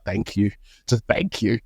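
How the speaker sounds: soft, deflated, mock-grateful thank you; resigned thanks. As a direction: sigh it out as if giving up. Resigned after ruined proposal.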